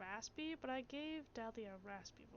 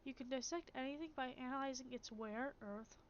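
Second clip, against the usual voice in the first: measured, even reading of game text; calm narrator reading a philosophical passage; story narration. A narrator's reading. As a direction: read it like the opening of a fable. Streamer reads game narration.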